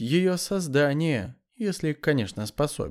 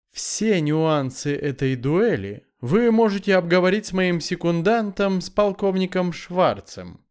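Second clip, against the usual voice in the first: pompous, self-important, a touch louder; pompous senator oratory; 3 semitones higher, 4 dB louder than usual. Acted. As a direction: speak grandly like a haughty noble. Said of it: "такой же несколько напыщенной манерой".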